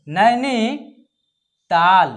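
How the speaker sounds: नैनीताल very slow, with the long नी drawn out; stretched out. Shown as a demonstration. Teacher to pupils, drawing out the long vowel in नैनीताल very slowly. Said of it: "इसको हम लोग खींच रहे हैं".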